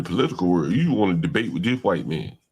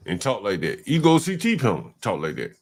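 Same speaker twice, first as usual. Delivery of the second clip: ordinary delivery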